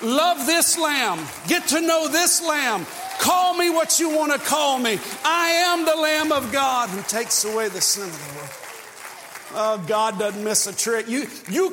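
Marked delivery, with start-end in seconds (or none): 0.0-8.5 pleading, rising to a shout; hoping Jesus. Acted. Jesus riding in, hoping the crowd picks him, rising loud plea. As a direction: beg to be chosen, then proclaim. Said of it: "literally hoping".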